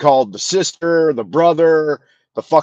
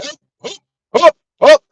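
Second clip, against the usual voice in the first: mock yell; 7 dB louder than usual. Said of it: "he's, like, yelling".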